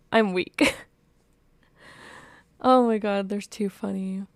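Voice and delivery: loud fangirl squeal; gushing delight. Real, not acted. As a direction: gush over the cute couple. Gushing over the scene.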